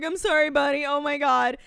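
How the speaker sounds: high, panicky mock apology; retold scared apology. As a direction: apologize in a rising fluster, acted out. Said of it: "I'm getting scared".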